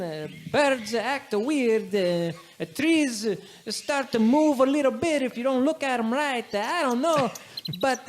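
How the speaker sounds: a nervous local giving the quest in broken English; Giuseppe's broken-English voice. Acted.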